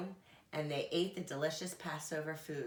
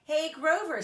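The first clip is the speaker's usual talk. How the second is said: high calling bird voice; Big Bird voice; 10 semitones higher, 8 dB louder than usual. A narrator's reading.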